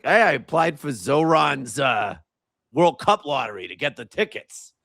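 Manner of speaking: retold line in a hint of Boston accent. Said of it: "he had a Boston accent".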